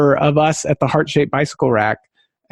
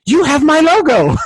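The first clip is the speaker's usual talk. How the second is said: much higher, louder amazed cry; excited exclaim; 10 semitones higher, 3 dB louder than usual. Retold or imitated. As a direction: play her shock at seeing the logo. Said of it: "She goes".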